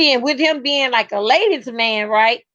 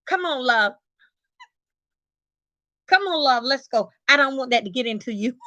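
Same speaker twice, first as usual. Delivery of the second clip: quieter, deadpan coaxing; uneasy husband; 4 dB quieter, faster than usual. Retold or imitated. Husband leading wife away from church shouting, deadpan. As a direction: lightly mimic a husband hustling her out. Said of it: "You know what he said?".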